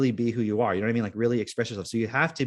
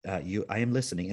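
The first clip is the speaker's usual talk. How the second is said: robot voice; 3 semitones lower, 3 dB quieter than usual. Retold or imitated. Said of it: "The robot's going".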